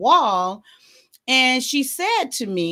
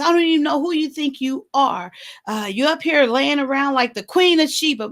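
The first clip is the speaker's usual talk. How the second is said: higher-pitched mock scolding; imitated nagging, pitched up; fussing; 5 semitones higher than usual. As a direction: retell a mother's fussy rant. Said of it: "she started fussing at me".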